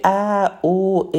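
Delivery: drawn-out "ا، او، ا" as separate vowels; added accent sounds. Shown as a demonstration. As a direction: sound out "ا، او، ا" one vowel at a time.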